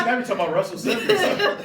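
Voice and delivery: loud, high, laughing exclamation; amused, high-pitched call-out; laughing tease. Real, not acted. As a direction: crow it through laughter. Teasing friend's name-drop through laughter.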